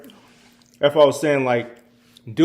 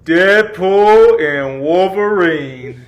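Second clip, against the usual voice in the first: excited announcement; 6 semitones higher, 10 dB louder, much slower than usual. Acted. Announcing number one movie.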